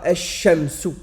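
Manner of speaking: ash-shamsu avec le lam muet et le shin doublé. Shown as a demonstration. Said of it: "le shin ici, on dira". (ash-shamsu sans lam)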